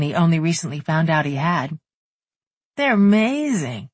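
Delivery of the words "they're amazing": slow, proud smiling tone. A narrator's reading. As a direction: let the smile fill the words. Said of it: "Cody's voice was filled with a smile".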